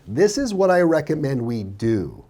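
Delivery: recommend spoken with a falling inflection; steady, dropping tune on This is what I recommend we do; firm downward command. Shown as a demonstration. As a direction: close with a downswing, like a command. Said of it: "notice the downswing".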